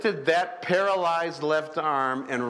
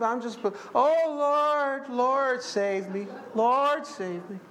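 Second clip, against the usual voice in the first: begging prayer. Retold or imitated. Preacher mocks a begging churchgoer's prayer, whiny pleading. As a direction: imitate someone pleading desperately with God. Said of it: "That's begging".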